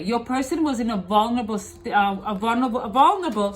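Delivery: slight lisp from aligners; talking round clear aligners; Invisalign lisp. Real, not acted. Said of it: "sorry for my lisp, I have Invisaligns".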